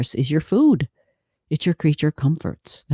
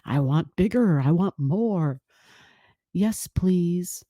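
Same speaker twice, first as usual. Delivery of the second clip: greedy Jupiter; 2 semitones higher, slower than usual. Pretend. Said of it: "that's all Jupiter stuff".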